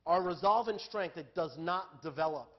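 emphatic repeat. Real, not acted. Preacher repeating his point to the congregation, emphatic and loud. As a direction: drive the point home loudly.

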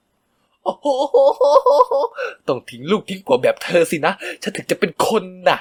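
cackling, slow, taunting; mad laughter. A narrator's reading. Stepmother taunting the mother, laughing madly. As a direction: laugh like she's lost her mind. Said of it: "หัวเราะเสียงดัง เหมือนคนไม่มีสติ".

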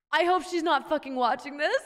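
giggling through the words; embarrassed laughing. Real, not acted. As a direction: laugh nervously while saying it.

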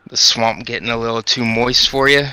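attempted Scottish accent. Shown as a demonstration. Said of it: "That's my Scottish".

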